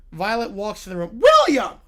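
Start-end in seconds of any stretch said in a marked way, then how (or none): 1.2-1.8 sharp, high yell of the name. Acted. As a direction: mom calling her son angrily. Mom yelling son's name.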